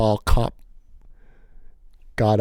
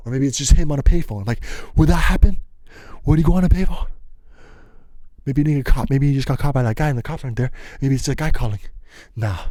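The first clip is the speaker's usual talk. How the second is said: higher, louder, racing guesses; anxious rush; 4 semitones higher, 3 dB louder, faster than usual. Retold or imitated. Boy frantically guessing whether his friend got caught, higher and louder. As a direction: spiral through every worry at once.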